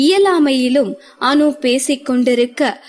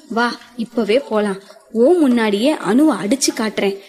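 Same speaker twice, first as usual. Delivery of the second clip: serious; 2 semitones lower than usual. Acted. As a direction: play it deadpan serious. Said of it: "சீரியஸாக அவந்திகா பேசவும்".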